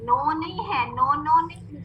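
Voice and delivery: नो with "o" where "oo" belongs; wrong "no". Shown as a demonstration. Teacher rejecting an old mistake, wrong "o" vowel. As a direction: open नो to an "oh" vowel. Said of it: "जो पहले हम पढ़ते रहे ना".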